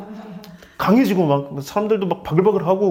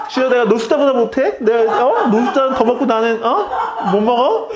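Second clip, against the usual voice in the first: hammed-up grievance, higher-pitched questions; mock indignant complaint; 4 semitones higher, 3 dB louder than usual. Believer comparing meals with the homeless, mock indignant. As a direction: protest to the Lord, comically put out.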